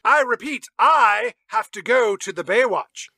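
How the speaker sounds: loud, high Brian voice insisting on the Baywatch; Brian shouting. Retold or imitated. Brian loudly begging Ben Affleck to go, shouting. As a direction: yell it out like a stubborn Brian. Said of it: "impression of Justin Bartha as Brian".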